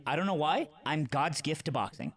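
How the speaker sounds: impression of Stans. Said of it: "That impression is insane".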